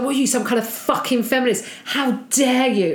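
hammed-up offended man; mock rage. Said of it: "he was screaming at me".

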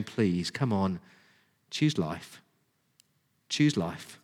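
low, soft, earnest plea; pleading. Retold or imitated. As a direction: plead gently, voice dropped low. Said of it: "he's just pleading with his people".

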